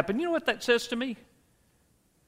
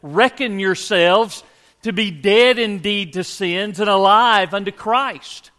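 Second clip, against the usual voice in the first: put-on Paul's Southern accent; 3 semitones lower than usual. Preacher quoting Paul, joking in a slight Southern accent. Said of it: "in Paul's very best Southern accent".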